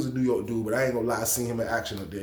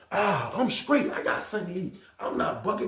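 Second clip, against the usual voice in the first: defiant refusal; 8 semitones higher than usual. Retold or imitated. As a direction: refuse flatly, voice cracking up high. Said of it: "He brought his box to the door".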